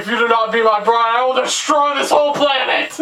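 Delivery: mock villain threat; Prince Lotor. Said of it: "He's pretty much like".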